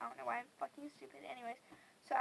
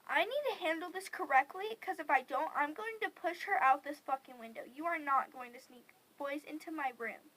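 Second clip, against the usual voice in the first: angry scolding; 5 dB louder than usual. Retold or imitated. Angry confrontation, retold.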